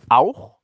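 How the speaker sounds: „auch“ hervorgehoben, mit steigendem Ton; Betonung auf „auch“. Real, not acted. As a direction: das Wort „auch“ nachdrücklich betonen. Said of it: "ich betone auch". („auch“ mit Nachdruck)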